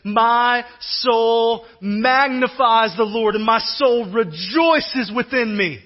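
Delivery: slow, stretched words with added force; proclaiming praise. Acted. Preacher voicing Mary bursting into song, slow proclamation. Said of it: "She busts into this epic freestyle".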